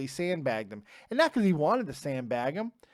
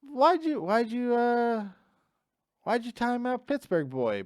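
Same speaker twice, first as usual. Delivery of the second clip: exasperated scolding; 6 semitones higher than usual. Real, not acted. Streamer scolding a moderator for timing out a viewer, exasperated. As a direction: call out the mod, fed up.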